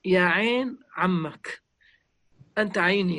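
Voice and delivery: a mild imitation of the old sheikh's affectionate greeting; gentle endearment. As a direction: lovingly call the child the eye of his uncle. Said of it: "يقول لك".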